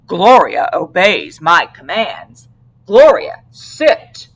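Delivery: slow, proud then sharp command. Acted. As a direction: order the dog to sit. Officer commanding dog.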